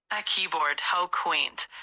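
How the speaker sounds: put-on a light Scottish accent, Scotty-style; a hint of Scottish brogue as Scotty. An AI doing Scotty's line in a light Scottish accent for a viewer. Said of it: "In a Scottish accent".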